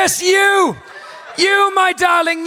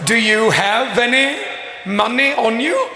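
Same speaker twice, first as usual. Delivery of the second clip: whispered asmr role play; 8 semitones lower, 3 dB quieter than usual. Acted. Host voices in-game shopkeeper.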